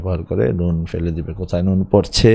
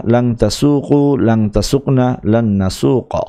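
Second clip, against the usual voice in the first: careful model recitation; 2 semitones higher than usual. Shown as a demonstration. Teacher modelling the paradigm for students, careful sing-song recitation. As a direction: recite each form clearly for students to copy. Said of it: "উস্তাদ এটাকে একবার করে দেখিয়ে দিবেন, সুন্দর করে উচ্চারণ করবেন".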